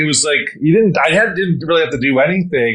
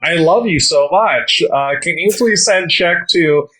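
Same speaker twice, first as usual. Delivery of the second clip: sweet fake grandson; 4 semitones higher, slower than usual. Parodying scammer message.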